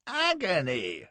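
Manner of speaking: high, drawn-out moan of agony; hammed-up wail of pain; pained groan. A narrator's reading. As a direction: groan it out slowly, full of self-pity. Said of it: "I groaned".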